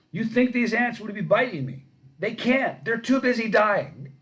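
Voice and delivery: loud, high showman pitch; booming salesman pitch. Retold or imitated. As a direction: sell it like a golf course huckster. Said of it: "He goes".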